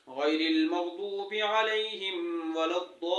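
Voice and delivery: slow, drawn-out tajweed recitation; Quran recitation. Shown as a demonstration. Teacher reciting Fatiha to students, slow and measured. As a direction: recite each word slowly and carefully.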